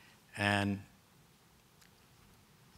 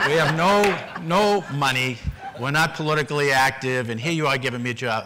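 louder, laughing through the words; a laughing, louder retold plea; laughing quote; 5 semitones higher, 8 dB louder than usual. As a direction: laugh while pleading your case.

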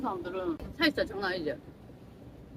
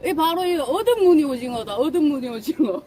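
loud, proud showing-off; excited presenter; 7 dB louder than usual. Acted. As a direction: announce the squid proudly. Presenting the squid loudly.

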